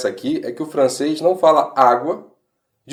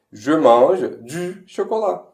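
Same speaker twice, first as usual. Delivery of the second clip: slow demo; 2 semitones higher, much slower than usual. Shown as a demonstration. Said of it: "o francês vai falar".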